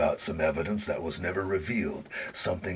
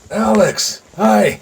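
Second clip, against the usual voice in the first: warm glad greeting; 12 semitones higher, 10 dB louder, much slower than usual. Acted. Charlie greets visiting cousin.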